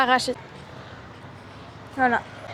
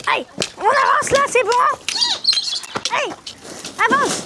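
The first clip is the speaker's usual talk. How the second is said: calling to animals; 11 semitones higher than usual. Real, not acted. Herding goats into the pen.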